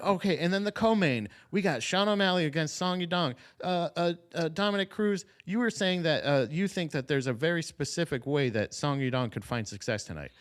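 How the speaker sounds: a hint of a bored presenter reading cues; mock announcer. Podcaster mocking the commentator's scripted questions, a hint of a bored host.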